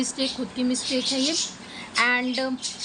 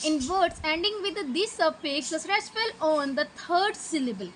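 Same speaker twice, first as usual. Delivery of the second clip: slow reading aloud; much slower than usual. Shown as a demonstration. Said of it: "तो क्या होगा कि the ending".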